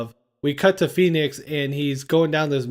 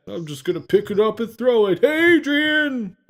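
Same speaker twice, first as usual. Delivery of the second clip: mock shout; 6 semitones higher than usual. Retold movie line, shouted Adrian.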